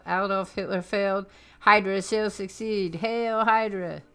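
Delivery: loud, grand villain proclamation; gloating villain speech. Acted. Strucker proclaiming his new order to his men, loud and grand. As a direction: boom it out like a conqueror.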